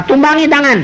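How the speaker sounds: voice of God. Retold or imitated. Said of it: "Kecuali kalau Tuhan berkata".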